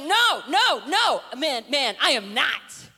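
protest, then spell it out slowly; mock flustered denial; emphatic denial. Acts Peter's frantic second denial.

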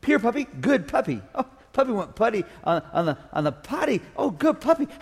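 sing-song praise for a good puppy; talking to a puppy. Acted. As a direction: coo at the dog like it just did well.

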